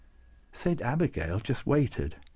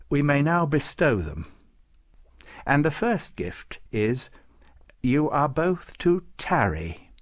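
lightly voiced saint, bestowing; 3 semitones higher than usual. Nicholas granting gifts to Klaus, ceremonious.

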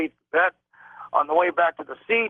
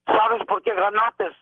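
higher, slow, drawn-out mock yell; 5 semitones higher, slower than usual. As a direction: call it down the hallway like a menacing stranger. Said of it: "he's going to me in a loud voice".

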